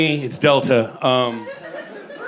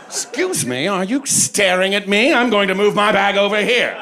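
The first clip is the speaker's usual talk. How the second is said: snooty; 5 semitones higher than usual. Retold or imitated. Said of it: "I think I deserve".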